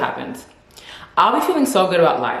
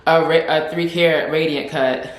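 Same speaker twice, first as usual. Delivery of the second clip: breezy demanding. Pretend. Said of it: "I would just be annoying".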